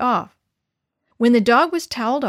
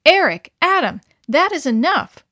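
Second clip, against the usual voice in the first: put-on raised, higher call to the boys; sudden scolding; 6 semitones higher, 6 dB louder than usual. Mother scolding her boys, sudden raised voice. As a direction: stop them short, loud and sharp. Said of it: "she said suddenly".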